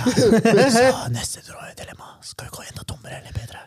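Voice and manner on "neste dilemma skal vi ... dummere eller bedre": whispered host's question; hushed, voiceless announcement; whispering. Pretend. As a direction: whisper the next question almost inaudibly. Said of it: "Jeg hørte ikke hva han sa".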